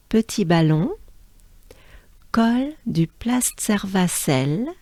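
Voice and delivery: careful roll-call with long pauses between names; measured list of French-Alsatian names; French place names. Shown as a demonstration. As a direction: read the names as a native French speaker. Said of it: "saying all the names of this stage once in a row".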